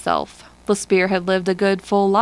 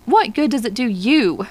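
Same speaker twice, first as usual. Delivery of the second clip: cried out; 3 semitones higher than usual. Acted. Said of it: "he cried to Lespierre".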